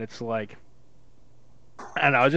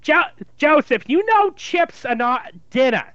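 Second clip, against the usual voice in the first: Jewish mother; 3 semitones higher than usual. Acted. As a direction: fret over him like a Jewish mother. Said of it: "a Jewish mother".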